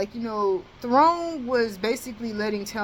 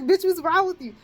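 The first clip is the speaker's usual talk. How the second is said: higher, amused mock scolding; laughing at past self; 8 semitones higher than usual. Looking back at her angry past self, amused scolding. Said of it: "I'm looking back like".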